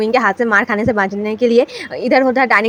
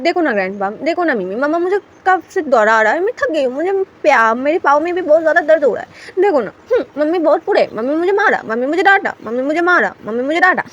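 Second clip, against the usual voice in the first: put-on whiny child; 4 semitones higher than usual. Child whining about being chased.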